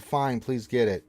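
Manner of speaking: grudging, drawn-out please; sarcastic. Retold or imitated. Mocking a chat request in a sarcastic tone. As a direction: toss it off with fake politeness. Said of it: "now you're being sarcastic".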